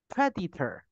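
"predator" with a light Chinese accent but the stress still on PRE. Shown as a demonstration. Teacher demonstrating an acceptable Chinese-accented "predator" to the host. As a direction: show a Chinese-accented "predator" that an American can still understand. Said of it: "like, with a Chinese accent".

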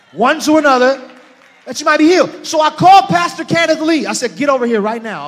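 loud, high-pitched pulpit exhortation; full-force preaching. Acted. Pastor urging church to confess their faults, impassioned preaching.

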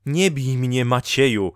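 pleading cry. A narrator's reading. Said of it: "krzyknęła wreszcie kobieta". (podniesiony, błagalny okrzyk)

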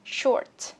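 "Short" with a popped T at the end; final T released. Shown as a demonstration. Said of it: "Bật âm T ra".

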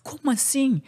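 startled awake, whispering. Retold or imitated. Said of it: "assustado, acordou assim". (sussurro assustado, agudo)

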